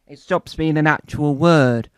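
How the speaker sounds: ordinary talk, nothing marked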